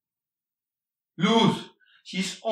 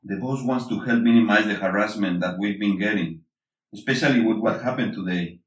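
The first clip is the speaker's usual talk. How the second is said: lower, gentler voice after the outburst; softened tone; 8 semitones lower than usual. Acted. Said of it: "His tone softens once again".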